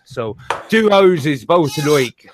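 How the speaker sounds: slow Barbadian-style Shakespeare reading; Barbadian accent. Shown as a demonstration. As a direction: recite it with a Barbados lilt. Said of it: "sounded more like they sounded in Barbados".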